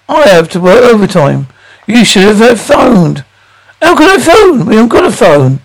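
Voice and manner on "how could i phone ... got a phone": exasperated retort. Acted.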